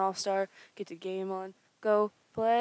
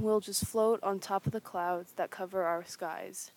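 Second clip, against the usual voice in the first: sung again more slowly; slower repeat; 4 dB quieter than usual. Shown as a demonstration. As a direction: stretch the line out, emphatic. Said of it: "I said".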